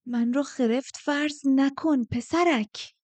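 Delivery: high, slow, cutting rebuke; whip-like voice. A narrator's reading. Old woman rebukes the younger man, whip-like. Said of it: "صدای باگرا مثل شلاق بود".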